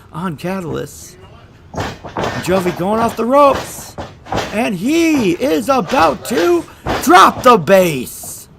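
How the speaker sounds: excited ringside play-by-play; wrestling commentator. Acted. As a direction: call the match live, building to shouts.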